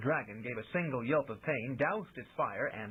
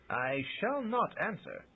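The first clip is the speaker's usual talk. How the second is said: startled; 6 semitones higher, slower than usual. Acted. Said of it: "looking startled".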